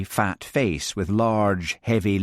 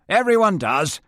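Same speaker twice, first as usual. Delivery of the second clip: higher, with a smug lift at the end; smug Major; 11 semitones higher, 5 dB louder than usual. Acted. Major Frame boasting to the group, smug rising tune. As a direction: let it rise, pleased with himself.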